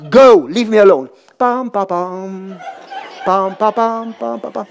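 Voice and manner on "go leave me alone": loud, curt "Go"; angry dismissal. Retold or imitated. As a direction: wave them off in irritation. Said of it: "Eventually, I got angry".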